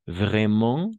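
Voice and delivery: "Vraiment" ending on a nasal vowel, no t; silent T. Shown as a demonstration. Teacher showing learners the silent ending, "Vraiment" without its t. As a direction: say "Vraiment" as vray-mahn, dropping the t. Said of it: "La T no pronunciamos".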